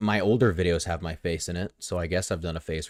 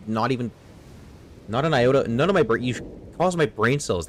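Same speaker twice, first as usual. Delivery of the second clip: louder and higher, flustered; exasperated outburst; 5 semitones higher, 3 dB louder than usual. Real, not acted. Gamer ranting at a boss, exasperated and louder. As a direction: sputter it out, losing your words in disbelief. Frustrated rant at game.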